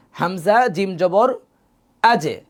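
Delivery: slow হামজা জিম জবর আজে with জ bounced; qalqala echo. Shown as a demonstration. Teacher drilling qalqala on jim for students. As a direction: draw it out, then bounce the জ. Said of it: "একটু প্রতিধ্বনি নেই".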